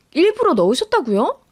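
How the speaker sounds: high, incredulous question; appalled daughter-in-law, pitch jumping up; shocked disbelief. Acted. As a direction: throw it back at her, stunned. Learns the insult was deliberate.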